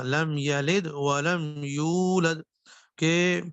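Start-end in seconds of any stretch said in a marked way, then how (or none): 0.0-2.4 slow recitation of لم یلد ولم یولد; correct recitation. Shown as a demonstration. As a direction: chant it slowly with proper vowels. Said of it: "جیسے". (آہستہ صحیح تلاوت)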